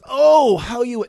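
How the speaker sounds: big high shouted OH; emphatic cry. Shown as a demonstration. Preacher showing how expressive the Hebrew is, emphatic cry. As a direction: burst out loudly on the OH, then carry on high. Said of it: "this is an emphatic".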